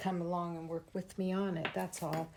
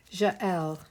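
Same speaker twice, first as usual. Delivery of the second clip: French accent. Shown as a demonstration. Crafter tries a viewer's name, Jael in French accent. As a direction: say "Jael" as a French speaker would, zhah-EL. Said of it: "have to say it with a French accent".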